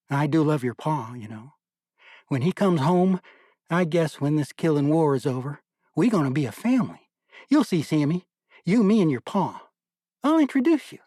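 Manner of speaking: a lightly voiced young mother, fond and hopeful; mother talking to baby Sam about his pa, fond and hopeful; young mother cooing to her baby.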